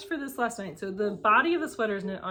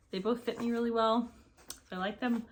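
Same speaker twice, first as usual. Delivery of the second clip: out of breath; 4 semitones higher than usual. Real, not acted. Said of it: "I'm out of breath".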